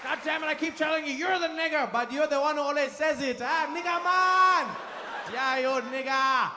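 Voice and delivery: joyful friendly ribbing; mock South African locals. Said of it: "They'll just be like".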